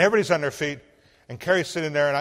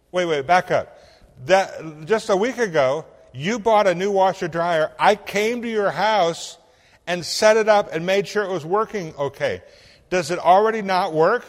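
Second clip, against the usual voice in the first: high and loud, flustered; rattled questioning, pitched up and pushed; exasperated; 6 semitones higher, 7 dB louder than usual. Retold or imitated. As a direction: pastor baffled by his wife on the phone. Exasperated pastor on phone.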